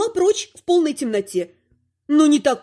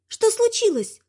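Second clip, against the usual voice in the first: high, drowsy murmur; half-asleep, barely awake wife; sleepy mumble; 8 semitones higher than usual. Acted. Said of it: "сонно пробормотала его жена". (сонное бормотание)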